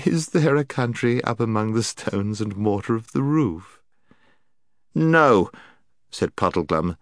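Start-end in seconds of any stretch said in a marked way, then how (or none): 0.1-3.8 kind and soft. Acted. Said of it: "soft, musical laugh". 4.9-5.5 out of breath. Acted. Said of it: "struggling a little to get his breath".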